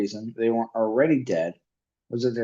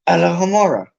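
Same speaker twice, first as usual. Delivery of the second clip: ordinary delivery, nothing marked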